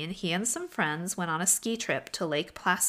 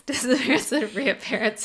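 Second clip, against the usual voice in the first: loud, higher showman's announcement; magician announcer; 5 semitones higher, 6 dB louder than usual. Retold or imitated. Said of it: "You sound like a magician".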